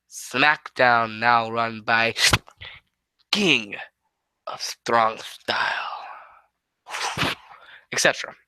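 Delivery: lightly voiced low slow Nakamura, half whispered; a hint of Shinsuke's low drawn-out promo; Shinsuke impression. Retelling the SmackDown promo, a low half-whispered Nakamura impression. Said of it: "That's my best Shinsuke impression".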